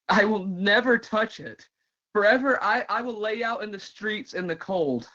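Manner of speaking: yearning soliloquy, swelling then falling back; impassioned dramatic monologue. Acted. Performer likening self to a moth, impassioned and yearning. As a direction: build with longing, then let single words hang.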